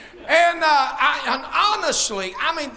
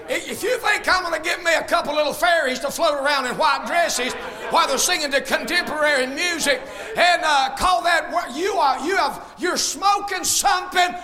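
fiery preaching. Acted. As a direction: preach it out to the whole church. Preaching to the congregation.

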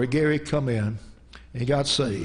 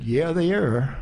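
put-on Southern mountain accent; 2 semitones lower, slower than usual. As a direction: imitate a Southern mountain man, "are" as "air". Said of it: "in the Southern Mountain accent".

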